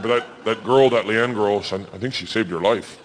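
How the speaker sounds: low, dry producer's voice. Acted. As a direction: state it drily, a little hesitant. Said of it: "Real dry".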